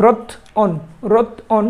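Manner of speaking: রথ অন said as two separate beats, রথ then অন; split syllables. Shown as a demonstration. Teacher showing students the vowel split as রথ অন. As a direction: break রথ অন apart slowly so the inserted অ is heard. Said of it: "অটাকে নিয়ে আসছি তয়ের পরে".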